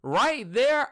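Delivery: high, loud sheepish admission; embarrassed. Real, not acted. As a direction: blurt it out sheepishly. Embarrassed confession.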